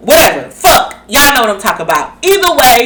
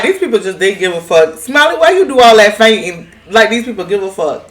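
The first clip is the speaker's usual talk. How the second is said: exasperated aside. Retold or imitated. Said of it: "I was just like".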